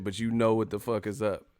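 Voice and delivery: ordinary talk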